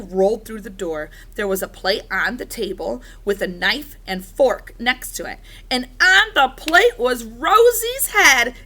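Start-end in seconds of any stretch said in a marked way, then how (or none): 5.7-8.5 dramatic reveal. A narrator's reading. Shocking sight revealed.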